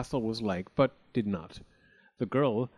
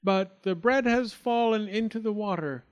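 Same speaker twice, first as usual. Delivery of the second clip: higher, lightly voiced fib; nervous lie; 9 semitones higher than usual. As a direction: keep the lie going awkwardly. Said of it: "lied in his teeth".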